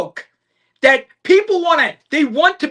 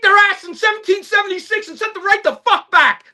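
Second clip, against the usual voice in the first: higher, shouting rant; fired-up shout; 5 semitones higher than usual. Real, not acted. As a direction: yell it with patriotic fury. Fired-up rant about 1776.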